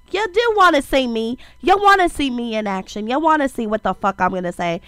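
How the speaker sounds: stuffy nasal voice from a cold; sick and congested, talking through the nose. Real, not acted. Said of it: "why the fuck I sound so nasally".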